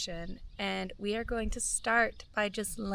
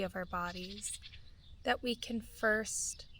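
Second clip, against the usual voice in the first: calm, measured meditation voice with long pauses; guided meditation. Real, not acted. Guide inviting listeners to feel gratitude for their bodies, calm meditation voice. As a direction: guide listeners gently inward, phrase by unhurried phrase.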